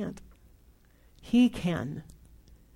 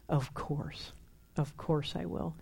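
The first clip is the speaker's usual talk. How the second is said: soft, low, gentle yes; tender reassurance; 5 semitones lower, 9 dB quieter, slower than usual. Retold or imitated. The Father answering his messy child, tender and soft. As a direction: comfort them softly.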